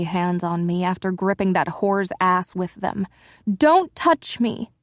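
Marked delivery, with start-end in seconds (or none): 3.5-4.7 high, slow shrieked protest; pitched-up scream of refusal. Acted. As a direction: shriek it out, recoiling from his touch. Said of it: "I shrieked".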